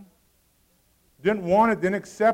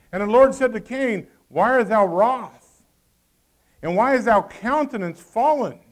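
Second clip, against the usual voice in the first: preached scripture reading; 5 dB louder than usual. Acted. Preacher reads God's words loudly.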